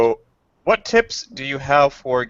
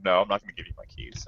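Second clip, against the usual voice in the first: mock drunk guy; 3 semitones lower, 8 dB quieter, faster than usual. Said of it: "he's just like".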